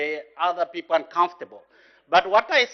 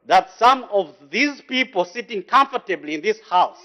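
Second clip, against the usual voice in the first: raised voice; 4 semitones higher, 3 dB louder than usual. Real, not acted. MP accuses members of looting.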